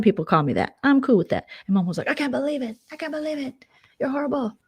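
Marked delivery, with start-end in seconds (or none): 2.1-4.6 high-pitched mock dismay; put-on scandalized voice; mock outrage. Acting out Mom's outraged reply.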